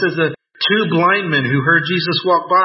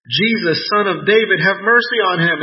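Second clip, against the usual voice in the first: mild shout; 5 semitones higher than usual. Retold or imitated. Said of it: "Blind Bartimaeus shouted".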